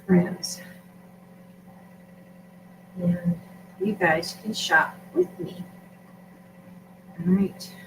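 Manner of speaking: talking through hiccups; speaking with hiccups between words; hiccuping. Real, not acted. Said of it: "I got hiccups".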